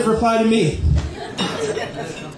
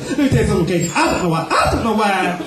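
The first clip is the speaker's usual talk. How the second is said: Eddie Murphy as Donkey; 3 semitones higher than usual. Acted. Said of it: "Eddie Murphy as the random donkey".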